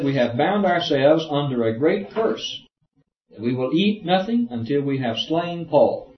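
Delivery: measured reading aloud from the Bible; formal Bible-reading voice; scripture reading. Acted. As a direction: read the verse out to the class.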